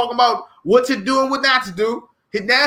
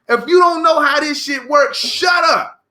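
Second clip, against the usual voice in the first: shouted; 5 semitones higher than usual. Real, not acted. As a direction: blow up at them on the repeat. Ranting repeat, second louder.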